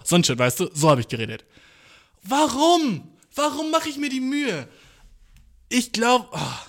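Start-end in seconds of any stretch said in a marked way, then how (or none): 2.2-6.6 exasperated at self. Real, not acted. Laughing despair at himself.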